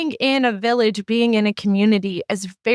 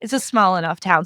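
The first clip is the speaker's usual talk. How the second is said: ordinary talk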